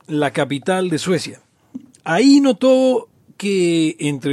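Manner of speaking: measured storytelling read-aloud. Acted. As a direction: read the thread like a tale. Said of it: "la gente disfruta de mi voz de leer".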